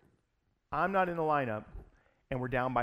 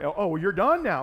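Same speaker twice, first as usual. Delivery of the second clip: angry retort; 5 semitones higher, 10 dB louder than usual. Retold or imitated. Manager retorts mid-argument.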